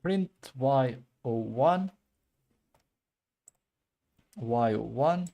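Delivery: words slurred around a pen; pen in mouth. Real, not acted. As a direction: keep a pen between the lips while talking. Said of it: "I'm keeping a pen in my mouth".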